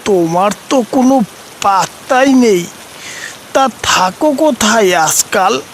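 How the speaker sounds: put-on a lively village boy calling to his grandpa figure; young boy voice. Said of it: "Nonte বুড়োকে দেখে বলল". (উঁচু গলায় উৎসুক ছেলের ডাক)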